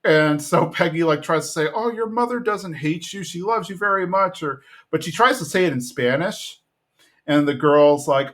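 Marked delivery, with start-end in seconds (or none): 1.7-4.4 mock reassuring. Peggy reassuring girl.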